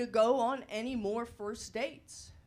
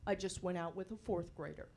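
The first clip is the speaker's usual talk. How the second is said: imitating inner panic; 4 semitones lower, 10 dB quieter than usual. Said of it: "Or he's thinking".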